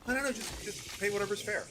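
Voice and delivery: high, airy mocking voice; mock hippie bank. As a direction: play a laid-back lib banker. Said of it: "What kind of progressive financial institution says".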